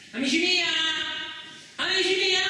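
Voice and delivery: calling out. Acted. Chiamata ad alta voce.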